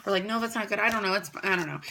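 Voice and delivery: a hint of bored annoyance; annoyed teen. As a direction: shrug it off like a bored teenager. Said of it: "I'd probably get a little annoyed and be like".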